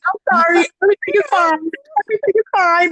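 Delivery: holding back tears. Retold or imitated. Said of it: "trying not to cry".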